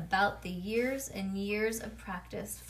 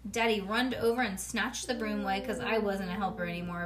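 ordinary delivery

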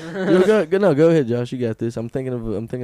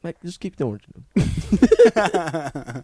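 put-on British accent; 4 semitones higher, 4 dB louder, much slower than usual. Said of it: "be like".

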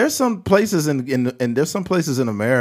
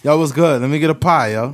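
put-on New York accent; 3 semitones higher, 5 dB louder than usual. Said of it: "in New York and stuff like".

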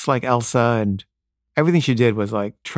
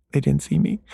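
higher, lightly voiced little girl; small child's voice; 4 semitones higher than usual. Daughter doubts the test, small child's voice.

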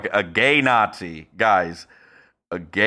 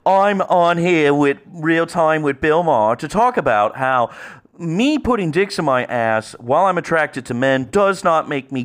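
Milo impression; 3 semitones higher than usual. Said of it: "maybe I can try one".

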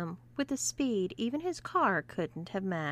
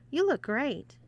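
joking; 6 semitones higher, 4 dB louder than usual. Acted. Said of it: "he joked".

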